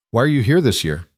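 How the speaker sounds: a hint of a small boy asking; curious little boy. Nephew questioning his uncle, lightly voiced child.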